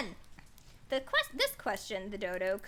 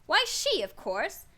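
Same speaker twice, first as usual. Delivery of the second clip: raised voice; 3 semitones higher, 4 dB louder, slower than usual. Acted. Dodo points to Alice.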